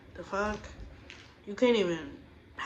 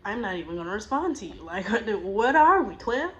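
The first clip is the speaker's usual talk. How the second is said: laughing scorn; 4 dB louder than usual. Retold or imitated. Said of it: "So I'm like".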